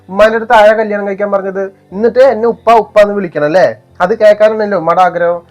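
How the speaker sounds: angry shouting. Acted. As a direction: hurl it at your mother in rage. Son rages at mother over stepfather.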